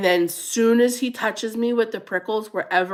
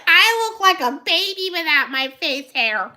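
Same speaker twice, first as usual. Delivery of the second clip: higher, lightly voiced husband protesting; a hint of the husband's playful whine; 10 semitones higher, 4 dB louder than usual. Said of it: "He's like".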